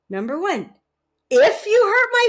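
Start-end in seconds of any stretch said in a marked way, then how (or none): 1.3-2.3 much higher, louder wife voice; mock wife. Wife answering the husband's apology, high and loud. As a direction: play the hurt wife, hammed up. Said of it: "three responses".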